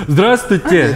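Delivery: greeting spoken on an in-breath; talking while inhaling. Retold or imitated. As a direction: gasp the hello in while inhaling. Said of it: "я начал говорить на вдохе".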